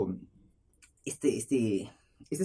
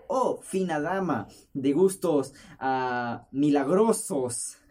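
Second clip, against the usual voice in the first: mock courtly reply; much slower than usual. Imagined courtly reply to fine lady.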